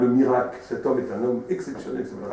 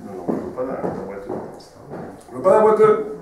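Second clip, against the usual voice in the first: indignant refusal; 5 dB louder than usual. Acted. Bride refuses the limping groom.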